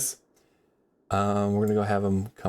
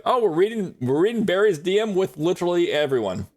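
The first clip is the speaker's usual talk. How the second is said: higher, teasing fake chat voice; mock gossiping chat; 8 semitones higher than usual. Streamer mimicking chat reading private messages, higher mock gush. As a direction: play a nosy viewer gushing. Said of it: "and they're like".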